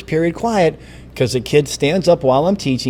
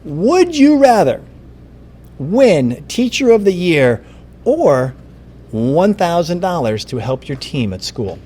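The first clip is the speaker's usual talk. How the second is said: quiz show host; 3 semitones higher, slower than usual. Acted. Reading quiz question like a host.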